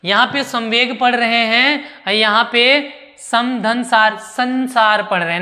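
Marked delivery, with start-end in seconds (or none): 0.4-1.0 संवेग pronounced with an m before व; nasal as म. Shown as a demonstration. Teacher repeating the example, संवेग with an m sound. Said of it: "म में". 4.2-5.0 संसार with the dot sounded as न; nasal as न. Shown as a demonstration. Teacher contrasting the examples, संसार with an n sound. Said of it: "न पढ़ रहे हैं".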